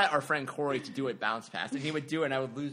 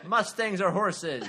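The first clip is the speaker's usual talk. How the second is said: laughing; 6 semitones higher, 6 dB louder, slower than usual. Real, not acted. Laughing at own joke.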